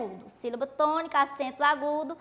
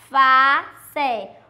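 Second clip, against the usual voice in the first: "alface" broken as al, fa, ce with clear pauses; split into syllables; 7 dB louder than usual. Shown as a demonstration. Teacher separating a word for pupils, syllable by syllable. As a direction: sound out "alface" syllable by syllable, loud and deliberate. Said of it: "Se nós for separar".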